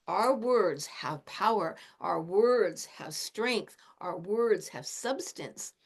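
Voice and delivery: slow, weighty words; slow deliberate emphasis; slow emphatic. Shown as a demonstration. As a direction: lay each phrase down slowly. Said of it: "speak calmly".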